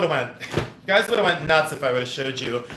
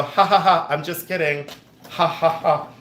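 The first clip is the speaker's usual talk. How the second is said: higher fake ha-ha around a joke; mock nervous laugh; 4 semitones higher than usual. Shown as a demonstration. Joking to viewers about the button room, fake nervous laugh. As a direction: cover the joke with a put-on chuckle. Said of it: "nervous laugh".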